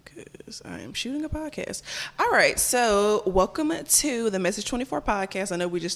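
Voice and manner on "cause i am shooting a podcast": breathy whisper aside. Real, not acted. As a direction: whisper it to the side. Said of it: "let me tell Mama".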